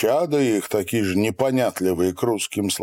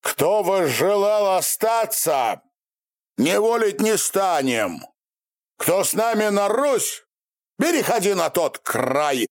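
ataman commanding; 10 semitones higher than usual. A narrator's reading. Ataman gives orders to crowd.

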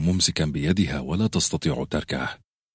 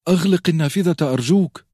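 high, loud pleading scream; desperate shriek; 11 semitones higher, 5 dB louder than usual. A narrator's reading. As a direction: scream for him to shut it. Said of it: "وصرخت".

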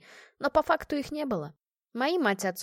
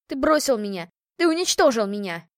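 shouted, voice breaking, louder; despairing woman screaming at the man who left her; cracking-voiced cry; 6 dB louder than usual. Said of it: "выкрикнула она срывающимся голосом".

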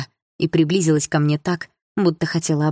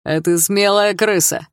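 mock threat; 2 semitones higher than usual. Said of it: "выкрикнул он".

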